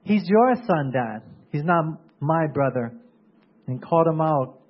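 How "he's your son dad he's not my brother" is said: a hint of a resentful son; imitating angry son. Elder son snapping at his father, mildly mock angry. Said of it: "he was so angry".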